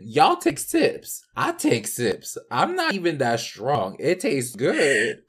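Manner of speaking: slow easy reassurance; drawn-out, calm sips advice; slow, reassuring. Retold or imitated. Bartender reassuring drinkers.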